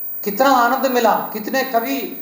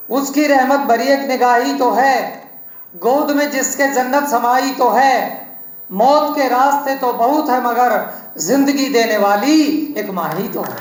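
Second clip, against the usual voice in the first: slow poem recital. Acted. Poet reciting a couplet about his mother to the audience, slow and measured. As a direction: recite it slowly, savouring each word.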